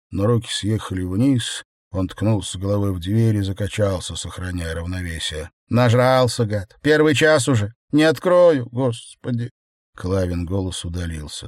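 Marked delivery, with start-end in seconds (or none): 5.7-9.5 loud, exasperated wife yelling through a door; angry scolding. Acted. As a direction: scold him, fed up and furious. (сердитая ругань жены)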